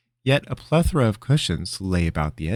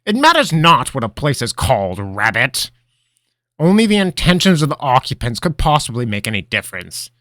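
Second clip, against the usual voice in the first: sober wise mentor; 6 semitones higher, 10 dB louder than usual. Acted. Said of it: "immediately sobering".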